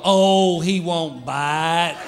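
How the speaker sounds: slow, reassuring owner voice; breezily downplay the danger; doting dog owner. Retold or imitated. Doberman owner reassuring a visitor, mock breezy. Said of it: "people who go".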